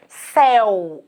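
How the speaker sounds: "Céu" with the mouth wide open, the é open; open vowel. Shown as a demonstration. Teacher demonstrating the open diphthong in "Céu". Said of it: "a boca é aberta".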